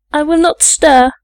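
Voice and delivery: put-on high-pitched, earnest child's promise; pleading cry. A narrator's reading. Young girl promises the maids to sit still, pleading cry. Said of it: "I cried".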